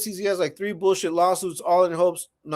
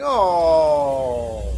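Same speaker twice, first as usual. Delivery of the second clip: mock wail; 4 semitones lower than usual. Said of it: "You're crying".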